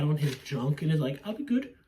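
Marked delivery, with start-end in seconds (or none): 1.2-1.7 high-pitched imitation of begging; mock pleading. Reviewer acting out her clinging to his leg, mock high plea.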